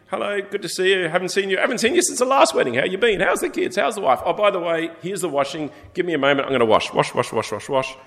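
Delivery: bright, bouncy guest greeting friends, then washing; cheerful wedding guest. Acted. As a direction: play a chatty guest busily washing up. Preacher voices cheerful wedding guest.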